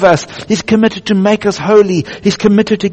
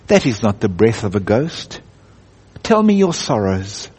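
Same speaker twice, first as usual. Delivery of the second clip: large deep voice; 8 semitones lower than usual. Acted. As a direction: voice the great lion, low and unhurried. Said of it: "very large and deep".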